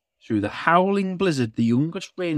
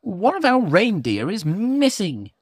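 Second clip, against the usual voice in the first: christmas elf; 9 semitones higher than usual. Acted. Elf speaks.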